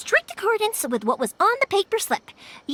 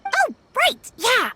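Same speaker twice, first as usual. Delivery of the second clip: surprised; 8 semitones higher, 3 dB louder, much slower than usual. Acted. Suddenly remembering.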